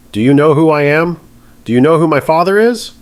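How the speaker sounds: high, loud entitled yelling; screaming. Acted. Spoiled defendant yelling at the judge, loud and high. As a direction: yell it as a spoiled rich girl. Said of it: "She's screaming now".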